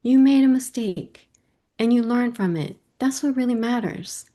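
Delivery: gently reassure, imitating a wise child; lightly acted, soothing child's voice; calm reassurance. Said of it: "so calm and she says".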